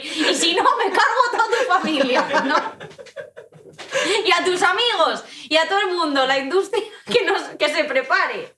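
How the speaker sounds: mock threat. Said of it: "No, es broma".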